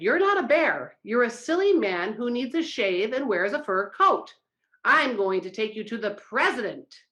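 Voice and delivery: the first vice president rages at the bear; yelling in rage. Acted. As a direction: shout him down. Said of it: "yelled in rage".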